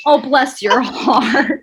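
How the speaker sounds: slow, sugary "Oh, bless your heart." stretched out; sweet old Southern lady. Retold or imitated. Host imitating an old Southern woman's polite insult, slow and syrupy. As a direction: lay on the fake politeness of a Southern grandma, slowly. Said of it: "In a polite way".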